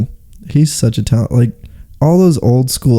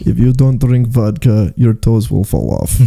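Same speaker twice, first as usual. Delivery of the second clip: stern mock Russian warning; comic Russian accent, evenly measured. Friend playing a Russian warning about frozen toes, Russian accent.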